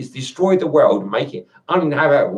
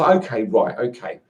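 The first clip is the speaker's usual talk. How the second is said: mock calm; 6 semitones lower than usual. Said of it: "in a very calm and reassuring way".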